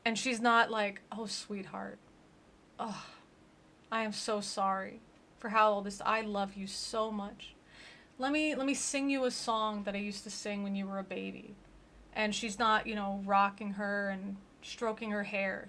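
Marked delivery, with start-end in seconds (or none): 1.1-11.6 softer, gentle mock-tender grandma; lightly hushed sweet grandmother. Grandma comforting her dying granddaughter, mock-tender.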